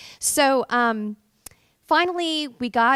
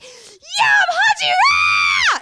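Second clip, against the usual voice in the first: high, loud joyful scream; thrilled screaming in a park after being cast; 13 dB louder, much slower than usual. Retold or imitated. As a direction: scream it out in triumph. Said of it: "screamed so loudly".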